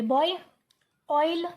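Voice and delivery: बॉय, ऑयल with an open aw vowel; everyday Indian-English बॉय, ऑयल, open vowel; common mispronunciation. Shown as a demonstration. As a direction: say बॉय and ऑयल in one quick syllable. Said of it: "आप इसको क्या pronounce करते होंगे".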